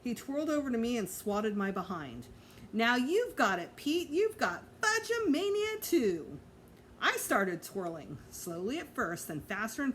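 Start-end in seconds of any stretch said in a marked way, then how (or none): 2.7-6.4 high, louder teasing cry; gleeful. A narrator's reading. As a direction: crow it as you tag him. Fudge tags Pete, gleeful.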